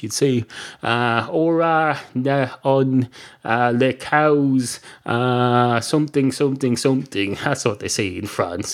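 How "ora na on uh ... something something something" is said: halting, made-up French; mock French. Guessing the phrase in France, bad mock French. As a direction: fumble through pretend French with a slight accent. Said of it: "you'd probably say it in French".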